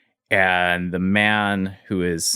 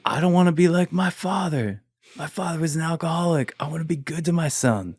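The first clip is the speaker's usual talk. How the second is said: mild crying; 7 semitones higher than usual. Retold or imitated. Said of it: "And he just started crying".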